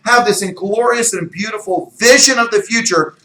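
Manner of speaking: wowed, high and loud, big swooping emphasis; thrilled at what could be; excited imagining. Acted. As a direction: dream out loud with booming excitement. Imagining the glorious vision, excited.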